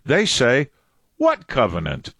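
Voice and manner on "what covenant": lightly voiced clueless reply, pitched low; clueless Christian. Christians answering back to God, lightly voiced as clueless. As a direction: play a mildly baffled believer, voice dropped. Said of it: "what do Christians say back to God".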